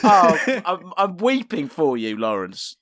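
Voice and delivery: hammed-up sarcastic pity; mock sympathy. Co-host to absent club owner Lawrence, mock sympathy.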